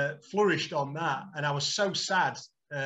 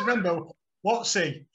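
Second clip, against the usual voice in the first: higher and louder, coaxing recognition; hopeful prompt; 3 semitones higher, 4 dB louder than usual. Retold or imitated. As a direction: nudge the old manager with a high, louder Wattsy. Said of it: "Like that".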